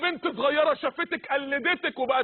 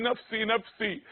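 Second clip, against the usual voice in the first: frightened murmur; 4 semitones lower, 4 dB quieter, slower than usual. Acted. Ibrahim pleading on Judgment Day.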